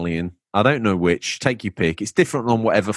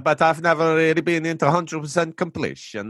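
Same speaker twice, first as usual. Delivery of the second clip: put-on Italian with added vowel endings; Italian accent attempt. Host retrying a listener's message, put-on Italian accent. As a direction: have another go at mock Italian. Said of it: "really Italian Italian with a heavy accent".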